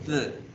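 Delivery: "th" as a short voiced d sound alone; isolated ending sound. Shown as a demonstration. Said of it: "¿Cuándo debe pronunciarse". ("th" como sonido aislado de "d")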